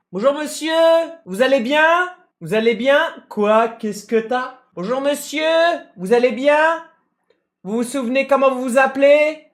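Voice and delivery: high, overly sweet paramedic talking to a patient. Retold or imitated. Paramedic greeting the injured man, mock sing-song voice. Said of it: "ils ont toujours cette voix-là".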